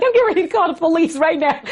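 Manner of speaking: high, worked-up warning; retold upset threat. Wife retelling her threat to call police, upset. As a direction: re-enact an agitated warning.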